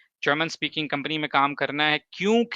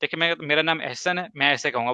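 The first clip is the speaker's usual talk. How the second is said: normal talking voice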